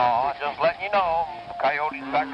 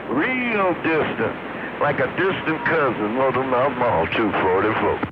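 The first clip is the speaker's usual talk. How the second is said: said again much louder, laughing it off; louder repeat; 10 dB louder than usual. Real, not acted. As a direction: belt the sign-off back over the radio. Repeats sign-off after being teased.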